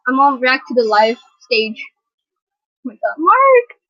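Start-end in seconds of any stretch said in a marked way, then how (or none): 2.8-3.8 high, loud and slow fangirl cry; excited squeal. Real, not acted. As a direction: stretch out his name in delight. Fan sees favourite member.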